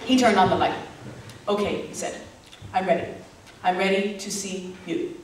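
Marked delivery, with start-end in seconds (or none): 1.5-1.9 earnest lover. Acted. Retold lover, calm and intent. 2.7-5.1 earnest lover. Acted. Retold lover, calm and intent.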